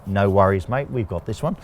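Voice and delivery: a light, slowed, bad Australian accent; lazy, jokey Australian accent, barely put on; terrible Australian accent. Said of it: "my terrible Australian accent".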